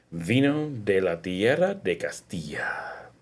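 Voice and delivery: slow breathy whisper. Acted. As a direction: whisper it like a secret. Whispered line of label read.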